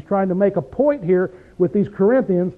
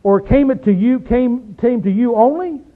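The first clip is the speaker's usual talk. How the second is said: mildly incredulous rhetorical questions, pitched up; sarcastic disbelief; 3 semitones higher than usual. Acted. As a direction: question them as if you don't believe it. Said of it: "He's putting real emphasis on these words".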